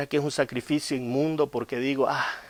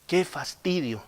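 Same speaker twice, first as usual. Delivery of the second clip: mock complaint; 3 semitones higher, 6 dB quieter, slower than usual. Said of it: "dijo el pueblo".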